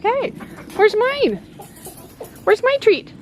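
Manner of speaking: high, begging hen voice; voicing the hen. Mom voices the Barnevelder hen begging for treats in a high voice. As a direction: play the hen demanding her treat, pitched well up. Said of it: "she's like".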